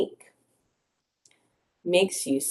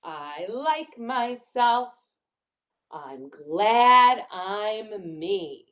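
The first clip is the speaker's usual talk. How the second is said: slow, deliberate picture-book reading; reading to children; slower than usual. Acted. Teacher reads a line for children to repeat, slow. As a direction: stretch the key words for young listeners.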